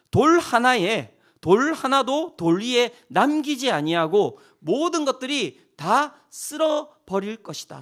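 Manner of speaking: slow and deliberate, word by word; slow emphatic prophecy. Acted. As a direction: lay each word down heavily.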